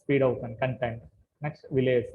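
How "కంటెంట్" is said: కంటెంట్ stressed on టెంట్; కంటెంట్, weak first part; stress on second syllable. Shown as a demonstration. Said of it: "కన్ ఏమైపోతుందంటే కొంచెం వీక్".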